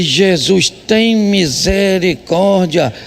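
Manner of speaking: slow, drawn-out plea to Jesus; a weary, drawn-out prayer of defeat; exasperated sigh. Retold or imitated. Pastor, defeated, slowly begs Jesus for mercy. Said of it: "Eu falei".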